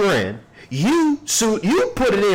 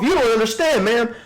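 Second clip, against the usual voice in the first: imitating the judge; 5 semitones higher than usual. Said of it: "Y'all see that judge take that shield off?".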